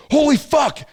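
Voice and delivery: sudden high, loud shout of shock. Real, not acted. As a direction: blurt it out in real alarm. Shocked reaction to gunfire on phone.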